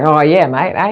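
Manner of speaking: put-on Australian accent. Host jokingly adopts the country's speech, Australian accent. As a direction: answer like a matey Australian. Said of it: "I used to love the Australian accent".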